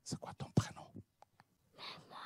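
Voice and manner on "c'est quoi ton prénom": chuchoté. Real, not acted. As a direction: question chuchotée, sans voix. Chuchote avec l'enfant timide. (le pasteur chuchote à l'enfant timide)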